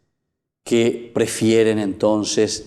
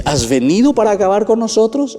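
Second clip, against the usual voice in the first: higher, louder rhetorical question; demon's question; 11 semitones higher, 5 dB louder than usual. Acted. Preacher repeating the demon's challenge to Jesus, higher and louder. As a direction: fling the demon's challenge out, raised. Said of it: "Es una pregunta retórica".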